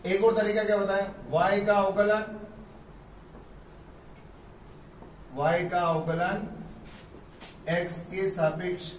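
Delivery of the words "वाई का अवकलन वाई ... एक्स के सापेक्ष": teacher reading y ka avkalan slowly; slow careful reading. Shown as a demonstration. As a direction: read each phrase slowly. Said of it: "ऐसे भी पढ़ते हैं".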